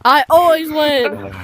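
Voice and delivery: slow, burped boast; burping the words. Real, not acted. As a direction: burp the words out. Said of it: "Sorry, that's a smelly burp".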